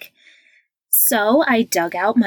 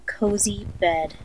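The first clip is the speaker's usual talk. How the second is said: whispering; 6 dB quieter than usual. Acted. Meditation whisper.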